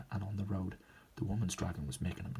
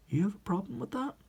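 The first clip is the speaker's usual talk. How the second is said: high-pitched, offended comeback; indignant challenge; 12 semitones higher than usual. Acted. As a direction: bristle and throw it back as a challenge. Glaring character takes offence.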